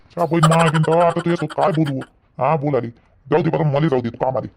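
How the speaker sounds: low, resigned grumble; exasperated giving up. Acted. Husband telling wife to let him go to work, exasperated. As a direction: drop the pitch and give up arguing.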